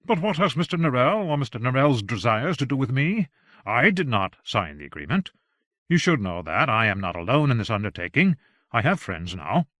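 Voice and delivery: mildly indignant objection; lightly acted brave protest; lightly voiced protesting gentleman. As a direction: stand up to him, a touch defiant. Plays Secundus objecting defiantly.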